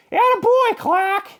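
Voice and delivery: high, loud praising teacher; proud teacher. A narrator's reading. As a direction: praise him warmly. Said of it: "said Missus Inky Dink".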